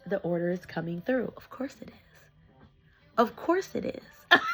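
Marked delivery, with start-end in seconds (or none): 1.4-2.7 slow, knowing whisper; whispered aside. Real, not acted. Repeats aside, first whispered, then loud. 3.2-4.4 slow, high-pitched delight; delighted exclamation. Real, not acted. Repeats the whispered line out loud.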